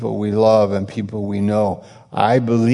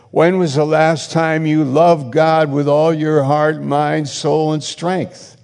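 God's challenge; 5 semitones higher than usual. Retold or imitated. Preacher voicing God interrogating backslidden Christians, raised and searching. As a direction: demand an answer, mildly voiced as God. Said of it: "The Lord is like".

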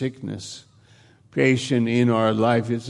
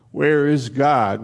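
crying out; 3 semitones higher, 4 dB louder than usual. Retold or imitated. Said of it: "they're crying out".

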